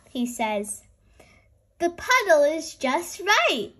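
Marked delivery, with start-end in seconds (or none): 1.8-3.7 higher, happy cheer; a delighted little girl cheering. Acted. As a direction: celebrate the puddle. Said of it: "cheers Peppa".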